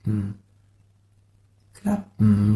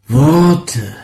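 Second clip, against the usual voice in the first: loud; 7 dB louder than usual. Acted. Sound poem, loud then faint.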